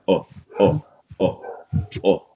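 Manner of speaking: oh glided, lips barely rounded; British oh diphthong. Shown as a demonstration. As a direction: say oh without rounding much. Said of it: "It's not like an O".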